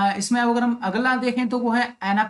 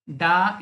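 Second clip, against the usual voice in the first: डा said without stress; unstressed डा; 3 semitones lower than usual. Shown as a demonstration. Teacher showing the weak syllable, unstressed डा. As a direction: leave डा unaccented, as the weak beat. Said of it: "इसमें stress नहीं लग रहा है".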